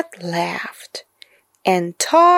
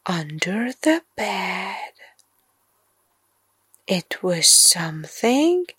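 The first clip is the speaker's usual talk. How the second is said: spooky bedtime narration. A narrator's reading. Narrator builds suspense toward the monster, hushed. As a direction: build the creepy tension.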